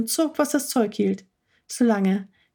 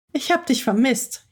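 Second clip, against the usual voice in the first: whining; 4 semitones higher than usual. Acted. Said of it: "jammerte Frieda".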